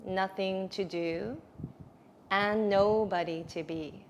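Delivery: guided meditation. Real, not acted.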